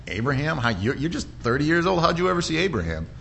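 voicing scoffing doubters, pitch lifting; incredulous. Religious leaders challenging Jesus about seeing Abraham, incredulous. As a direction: question it in mock disbelief.

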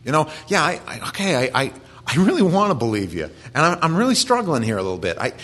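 a hint of a struggling father asking for faith; desperate father. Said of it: "And the guy says".

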